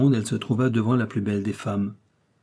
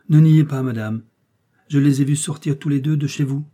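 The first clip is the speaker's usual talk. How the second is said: loud, high attack on the opening words; heated accusation; 4 semitones higher, 7 dB louder than usual. A narrator's reading. Flore accuses Miss Eden over her lover, heated. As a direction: burst out accusingly, voice raised.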